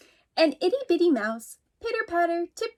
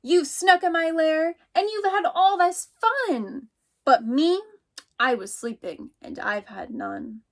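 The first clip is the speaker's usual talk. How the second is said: grumpy bear; 4 semitones higher than usual. Acted. Bear complains in story.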